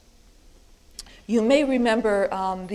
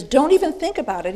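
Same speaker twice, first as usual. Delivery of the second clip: quick, louder, higher warning; emphatic; 5 semitones higher, 5 dB louder, faster than usual. Acted. Paul rejecting the idea of sinning on, emphatic. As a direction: fire it out fast and forceful. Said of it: "about as emphatic as he can be".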